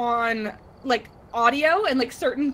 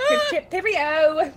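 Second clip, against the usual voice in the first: slow, higher mock-British farewell; silly stretched-out British cheerio; bad British accent; 4 semitones higher, slower than usual. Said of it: "doing my stupid bad British accent".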